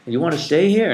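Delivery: put-on high, loud old-fashioned tour guide; old-timey voice. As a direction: ham up a quaint old-timer. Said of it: "just had an old-timey voice".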